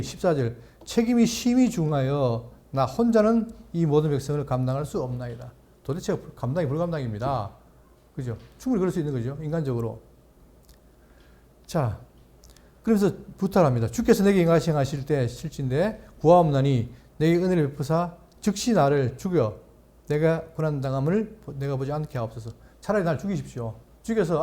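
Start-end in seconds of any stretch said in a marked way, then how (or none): 0.8-5.5 measured, solemn Bible reading; scripture reading. Acted. Pastor reading Numbers to the congregation, solemn reading. 13.9-22.5 measured, solemn Bible reading; scripture reading. Acted. Pastor reading Numbers to the congregation, solemn reading. Reads Moses' plea.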